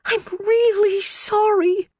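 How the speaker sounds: high, slow, tiny mewed apology; secretary mewing an apology to her boss. A narrator's reading. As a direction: mew it out pitifully. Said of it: "Phoebe mewed".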